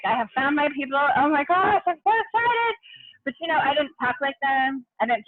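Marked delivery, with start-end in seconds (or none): 0.0-2.8 squealing high with excitement; ecstatic. Retold or imitated. Girl meeting her new roommates, ecstatic and squealing. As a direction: gush like a thrilled kid. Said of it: "I just remember being ecstatic".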